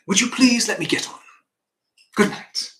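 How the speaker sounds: be polite but don't engage, just send them off; somewhat polite dismissal. Acted. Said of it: "I would be polite, somewhat polite".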